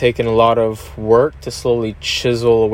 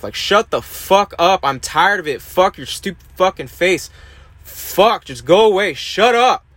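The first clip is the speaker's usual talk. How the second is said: screaming inner voice; 8 semitones higher than usual. Retold or imitated. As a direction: let the inner critic's rage boil over into screaming. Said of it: "to have screaming behind your eyeballs".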